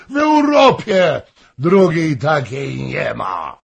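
heated proclamation. A narrator's reading. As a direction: declare her unmatched in Europe. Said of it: "krzyknął". (żarliwie wykrzyczane, coraz wyżej)

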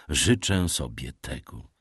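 a father gently insisting his daughter stay, tender; tender fatherly. A narrator's reading. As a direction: say it lovingly as a father would, low and slow. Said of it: "głosem przepojonym tak głęboką ojcowską czułością".

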